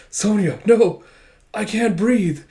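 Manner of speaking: overwhelmed soap opera sweetheart; soap opera drama. Acted. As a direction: play it breathlessly melodramatic. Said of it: "a little soap opera drama".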